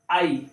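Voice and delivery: आई as a falling eye sound; Y read as eye. Shown as a demonstration. Teacher showing how Y is read, isolated eye sound. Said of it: "वाई को आई भी पढ़ा जाता है".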